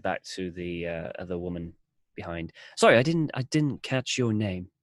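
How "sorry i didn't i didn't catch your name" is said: polite traveler. Acted. Alfred asks woman's name.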